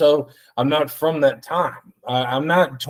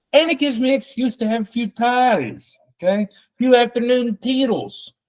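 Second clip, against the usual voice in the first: silly high sing-song voice; high, silly party voice; goofy high voice; 9 semitones higher than usual. Pretend.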